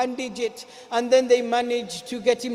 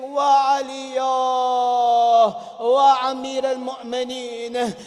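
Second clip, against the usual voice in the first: lamenting cry; 5 dB louder than usual. Acted. People in masjid lamenting.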